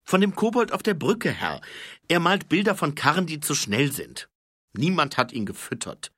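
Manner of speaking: put-on high, fast, keen young voice; eager high-voiced corporal reporting. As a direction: rattle off the report, high and quick. Corporal explains the gargoyle.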